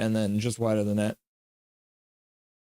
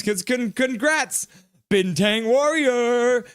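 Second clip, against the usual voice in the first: stammering congrats; 10 semitones higher, 4 dB louder, much slower than usual. Retold or imitated. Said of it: "Bunny fans".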